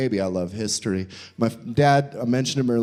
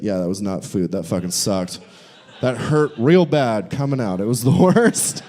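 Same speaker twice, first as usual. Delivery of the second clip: lightly voiced miserable caveman; 5 semitones lower than usual. Caveman Jeff after eating rocks.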